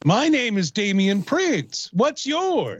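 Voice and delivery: slow, hammed-up impression; Damian Prince. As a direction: introduce yourself in a drawn-out character voice. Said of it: "that's my Damian Prince impression right there".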